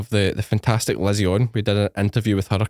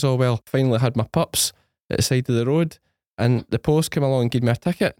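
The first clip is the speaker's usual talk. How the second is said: put-on Fife accent; 3 semitones higher than usual. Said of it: "She's got a Fife accent".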